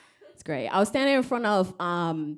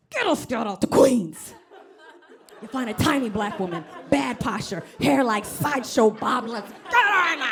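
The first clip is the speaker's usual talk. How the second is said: louder, higher mock producer barking orders; a porn entrepreneur giving orders, hammed up; sleazy boss; 4 semitones higher, 5 dB louder than usual. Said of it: "porn entrepreneur's like".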